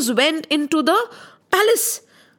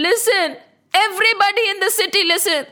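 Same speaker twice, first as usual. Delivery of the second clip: acted town-crier summons; public proclamation; 3 semitones higher, faster than usual. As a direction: call out to a crowd. Krishna addresses the whole city.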